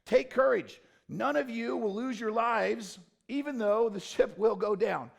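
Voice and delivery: loud, high, ringing declaration; loud, rousing call to courage; bold proclamation. Acted. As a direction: proclaim it to the crew with full force. Preacher voicing Paul boldly.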